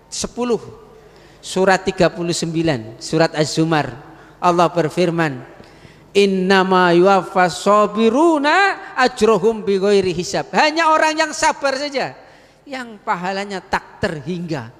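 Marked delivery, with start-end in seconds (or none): 6.1-10.5 Arabic recitation inside an Indonesian sermon; Quran recitation. Acted. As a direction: recite the verse like in prayer.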